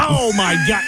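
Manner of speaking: very high-pitched cry of disbelief; aghast shout. Real, not acted. Co-host hearing he only saw a podcast, aghast. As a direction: shriek it in exasperated shock.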